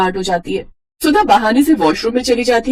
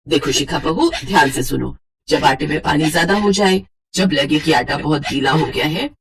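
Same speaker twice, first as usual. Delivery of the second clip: lower, gentle guidance; kind mother-in-law; 4 semitones lower than usual. Acted. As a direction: calmly teach a scared bride. Mother-in-law teaches kindly.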